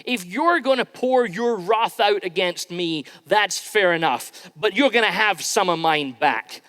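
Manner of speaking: half-playful angry outburst at God; psalmist's rage. Acted. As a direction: voice the psalmist shaking his fist at God. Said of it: "his rage says".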